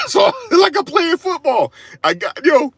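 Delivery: high, loud, laughing through the words; real laughter. Real, not acted. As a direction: crack up at your own story. Cracks up recalling the tackle.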